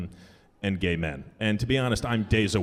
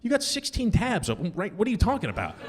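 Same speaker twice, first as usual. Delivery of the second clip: incredulous; 10 semitones higher than usual. Retold or imitated. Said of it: "I'm like".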